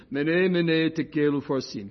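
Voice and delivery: "Mene" as MEH-neh, "upharsin" as oo-FAR-sin; Aramaic pronunciation. Shown as a demonstration. Correcting the listeners with the right pronunciation. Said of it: "stand corrected".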